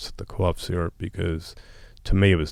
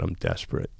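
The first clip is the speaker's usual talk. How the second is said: whispered admission; 6 dB quieter than usual. Retold or imitated. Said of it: "I said".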